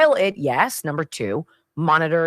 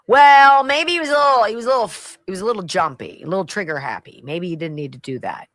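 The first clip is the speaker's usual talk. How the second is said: mocking whiny voice; 3 semitones higher, 5 dB louder, faster than usual. Mocking the Daily Mail's implied idea.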